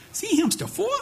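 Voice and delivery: put-on high squeaky little kid asking; squeaky toddler voice. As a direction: imitate a toddler pointing at a picture. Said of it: "in her little squeaky toddler voice".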